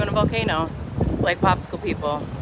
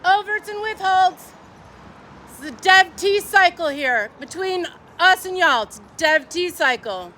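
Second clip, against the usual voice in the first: mock preacher; 8 semitones higher than usual. Mock Scientology jargon voice.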